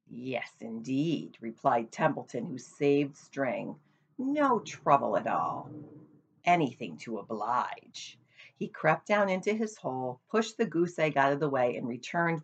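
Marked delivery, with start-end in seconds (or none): 0.1-8.2 rat voice. Acted. Templeton the rat speaks.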